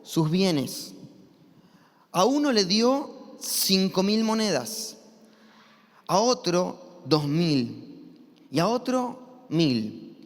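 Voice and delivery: slow, deliberate Bible reading; scripture reading. Acted. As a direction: read the parable slowly to the congregation. Reads the parable aloud. (lectura bíblica pausada y solemne)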